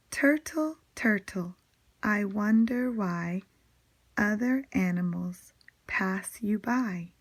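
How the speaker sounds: put-on measured poem reading for young children; teacher reciting a simple rhyme; poem recitation. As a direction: read each short line clearly, pausing between. Reads a poem aloud.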